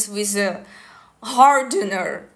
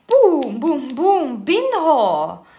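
excited exclamation; 5 semitones higher, 6 dB louder, much slower than usual. Shown as a demonstration. Imitating stats jumping out at her.

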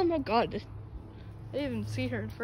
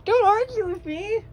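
loud, high scolding; angry shout; 8 semitones higher, 10 dB louder than usual. Real, not acted. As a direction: snap at the pet. Scolding pet loudly.

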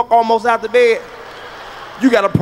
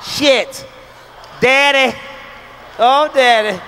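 mock moaning woman; 2 semitones higher, much slower than usual. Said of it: "A woman can fake a nut".

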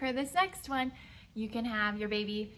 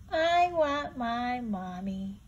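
whiny little owl; slower than usual. Acted. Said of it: "said Bill".

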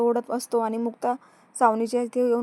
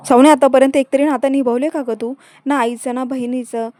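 angry reproach; 9 dB louder than usual. Retold or imitated. Mukta berating Savni over broken relationships, loud. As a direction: lash out, word by word.

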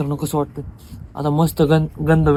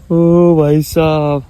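startled exclamation; much slower than usual. Real, not acted. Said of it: "ओ घाबरलो होतो मी".

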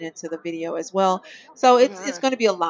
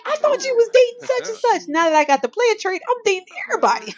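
voicing the game character; 13 semitones higher, 4 dB louder than usual. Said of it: "She's like".

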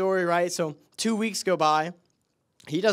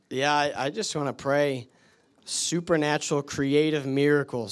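prayer. Acted. Preacher prays over congregation.

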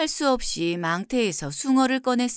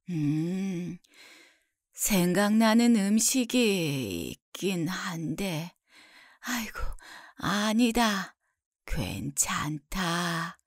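soft, slow, drawn-out hesitation; hesitant ailing mother; 3 semitones lower, 4 dB quieter, much slower than usual. Acted. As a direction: trail off slowly like a sick mother declining. Sick mother hesitates, then declines.

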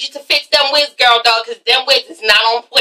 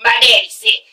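lower, fed-up imitation; mock Countess; 5 semitones lower than usual. Vlogger voicing Countess leaving Carmen, lower and fed up. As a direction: brush them off, lower and tired. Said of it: "Countess is like".

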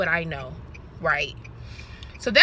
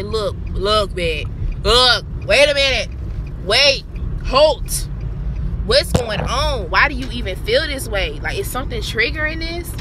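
louder self-scolding "wait a minute, halt"; stern self-talk; 3 dB louder than usual. Retold or imitated. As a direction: snap yourself out of it.

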